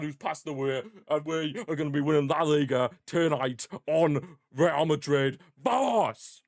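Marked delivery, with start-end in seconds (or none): 5.6-6.4 higher-pitched victory cry; triumphant cheer. Real, not acted. Fan cheering the goal for his club, triumphant cry. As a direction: punch the air with it.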